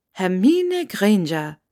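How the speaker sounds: "Hermine Granger" drawn out slowly, savouring each sound; slow, savoured Scottish take on "Hermine Granger"; name rolled on the tongue. Acted. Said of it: "ließ den Namen über ihre Zunge rollen, wie nur Schotten es konnten".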